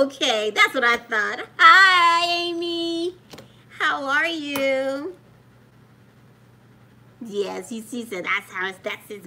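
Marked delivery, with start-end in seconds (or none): 1.6-5.1 loud, bright hello pitched up; excited loud hello. Real, not acted. Grandma calling out hello to a viewer, loud and happy. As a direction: call out a big welcome.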